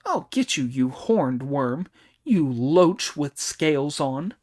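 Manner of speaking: angry threat. Acted. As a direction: spit out the insults one by one. Monkey berates the Dragon King.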